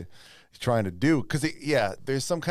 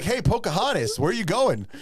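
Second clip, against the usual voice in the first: mock American accent; 8 semitones higher than usual. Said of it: "straight American accents".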